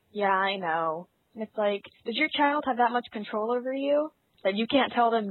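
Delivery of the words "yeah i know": imitated weary parent, slightly lowered; sighing parent. Former cashier mimicking a parent warned about the rating, mildly resigned. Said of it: "sighs, and goes".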